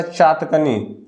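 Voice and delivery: चातकनी drawn out very slowly; slow wrong form. Shown as a demonstration. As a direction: stretch चातकनी syllable by syllable. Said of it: "चातकनी कुछ नहीं होता".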